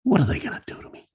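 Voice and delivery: high defiant repeat. Retold or imitated. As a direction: toss it off, nothing to lose. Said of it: "he says".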